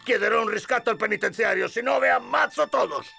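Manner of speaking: blustering threat. Acted. Bandit takes hostages.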